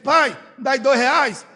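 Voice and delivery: put-on casual child asking. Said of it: "Ele chega e diz".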